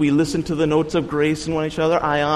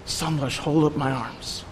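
quiet request; 6 dB quieter than usual. Retold or imitated. Brother sitting with him asking quietly for support, soft and close. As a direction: ask it gently across the table. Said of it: "and says".

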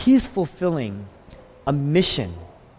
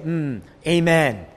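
approving amen; 2 semitones lower, slower than usual. Retold or imitated. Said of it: "they would all respond and say".

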